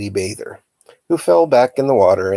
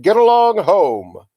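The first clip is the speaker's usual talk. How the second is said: much higher, loud shooing shout; crying out; 10 semitones higher, 5 dB louder than usual. A narrator's reading. Uncle shoos the boys off the dock, loud shout. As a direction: chase them off with a yell. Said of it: "he cried".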